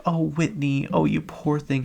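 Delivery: high, cooing fake sympathy; mock pity. Friends fussing over the victim, mock pity.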